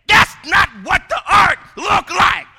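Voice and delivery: loud, high mock protest at the TV; indignant outburst. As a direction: shout what you only said inside. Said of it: "didn't stand up like that and say it like that".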